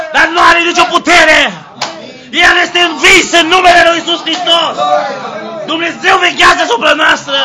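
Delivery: preacher roaring to the congregation; full-force preaching. Acted. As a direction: shout the victory like a revival preacher.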